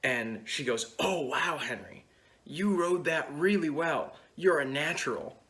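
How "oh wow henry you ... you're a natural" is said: raised-pitch, admiring compliment; mock wowed praise; imitated impressed praise. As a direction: play someone pleasantly amazed by a beginner. Girlfriend praises his riding.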